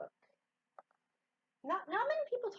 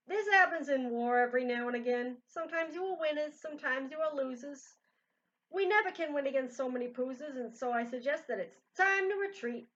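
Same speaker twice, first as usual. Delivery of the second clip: shouting; 5 semitones higher, 7 dB louder than usual. Acted. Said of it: "shouted out to his men".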